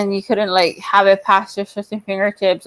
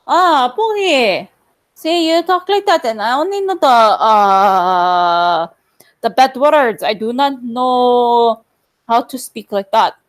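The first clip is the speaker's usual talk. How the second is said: put-on Filipino accent; 2 semitones higher, slower than usual. Streamer explaining their limits to Pokey, Filipino accent. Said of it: "I only understand the accent".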